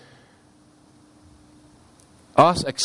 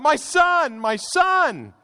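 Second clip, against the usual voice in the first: much higher, anguished "My son, my son"; crying out in grief; much slower than usual. Acted. Preacher voicing David mourning his son, anguished. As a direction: cry it out like a broken father. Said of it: "David cries out".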